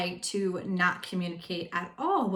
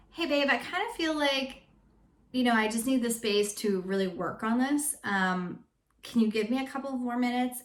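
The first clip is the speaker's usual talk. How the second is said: gentle request; 3 semitones higher than usual. Shown as a demonstration. Asking husband for space, sweetly. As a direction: ask kindly for space. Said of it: "Take a couple steps back and say".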